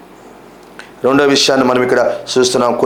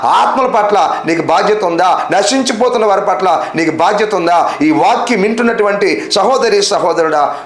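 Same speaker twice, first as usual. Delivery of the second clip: raised-pitch, rhythmic volley of questions; insistent preaching; 4 semitones higher than usual. Real, not acted. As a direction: press the congregation question after question. Preacher repeats a challenge to listeners. (గట్టిగా నిలదీస్తూ ప్రసంగం)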